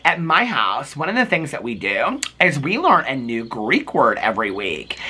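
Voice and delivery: put-on voice with swooping pitch; imitating Angie. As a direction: play a castmate announcing her house tradition. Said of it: "'cause she's Greek".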